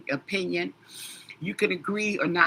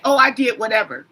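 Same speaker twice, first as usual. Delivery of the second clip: louder, lightly mimicked vague kid talk; imitating young people; 6 dB louder than usual. Host imitating young people leaving out details, light mimicry. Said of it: "recognize how these young people talk".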